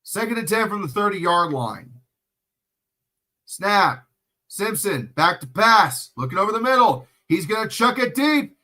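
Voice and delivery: building sportscaster call; play-by-play call. Acted. Narrating the pass for viewers, a building play-by-play call. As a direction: call the snap and throw live.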